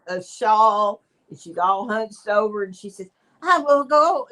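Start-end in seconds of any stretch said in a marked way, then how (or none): 3.4-4.3 put-on high, loud quavery old lady; little old lady voice. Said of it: "talking to this little old lady voice".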